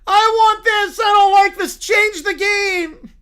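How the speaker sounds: high, shouted demands. Acted. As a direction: yell it like a kid demanding another channel. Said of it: "The broadcast gets louder".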